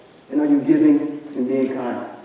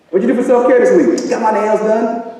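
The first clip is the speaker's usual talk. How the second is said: playful quiz; 6 semitones higher than usual. Acted. Mock quizzing the audience.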